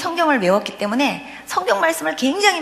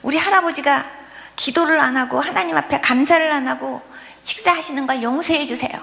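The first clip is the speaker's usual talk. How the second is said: put-on higher, earnest little-child prayer; child praying; 3 semitones higher than usual. Child praying aloud for grandfather at the table, higher child voice. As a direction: pray like an earnest small child.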